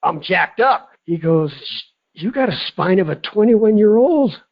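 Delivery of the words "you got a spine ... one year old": higher-pitched retold amazement; mildly hammed-up astonishment; amazed. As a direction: imitate an astonished practitioner giving good news. Retelling chiropractor's amazed verdict.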